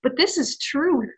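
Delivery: hushed whisper of awe. Real, not acted. Awed by the book's message.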